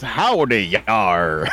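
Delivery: hint of Southern drawl into a pirate "yar"; playful Southern-fried pirate greeting; Georgia pirate. Shown as a demonstration. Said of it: "hear a Georgia pirate".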